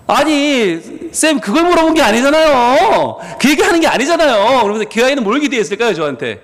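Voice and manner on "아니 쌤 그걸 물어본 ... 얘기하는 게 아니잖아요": high, louder pleading student voice; mock a student's whining complaint; whiny student protest. Student whining at the pastor, high and loud.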